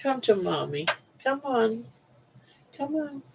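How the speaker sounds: soft, coaxing call to a pet; quiet, sweet coaxing. Real, not acted. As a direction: lure her over gently.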